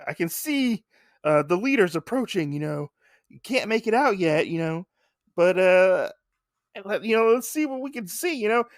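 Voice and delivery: a hint of a play-by-play caller; race announcer. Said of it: "He's announcing them".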